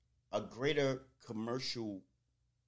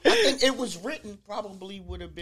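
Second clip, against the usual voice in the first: laughing; 6 semitones higher, 14 dB louder, faster than usual. Real, not acted. Laughing fit.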